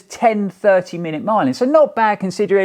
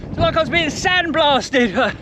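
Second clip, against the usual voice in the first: raised, higher voice against wind; shouting over wind; 6 semitones higher than usual. Real, not acted. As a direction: call out over the gale. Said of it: "Hopefully you can hear me".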